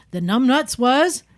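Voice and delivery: slow drawn-out slogan read; ad slogan imitation. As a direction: say it like a TV ad tagline. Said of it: "Like the Law Tigers".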